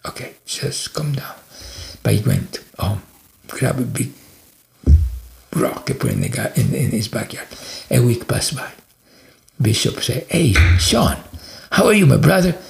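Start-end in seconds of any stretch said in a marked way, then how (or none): 0.0-1.3 dropped to a soft, restrained voice; reining the temper in, quietly; calming down. Retold or imitated. Boss holding back from firing everybody, quietly self-soothing. 10.3-12.6 louder, higher, jovial hail; hearty greeting. Retold or imitated. Bishop greeting Sean after a week, hearty and upbeat.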